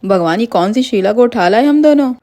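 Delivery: high-pitched storybook alarm; acted shock at a horrible discovery. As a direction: blurt it out in startled disbelief, high. Kidnapper sees the backwards feet.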